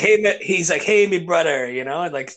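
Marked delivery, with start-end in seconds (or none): 0.0-0.4 higher, louder Jamaican greeting; light mock Jamaican accent. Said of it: "Jamaican guy". 0.8-1.7 lightly imitated Jamaican greeting; casual mock Jamaican accent. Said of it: "Jamaican guy".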